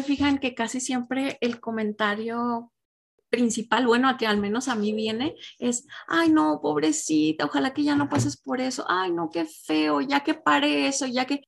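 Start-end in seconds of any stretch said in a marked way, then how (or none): 6.1-11.4 sympathetic friend. Retold or imitated. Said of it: "esa es mi tendencia".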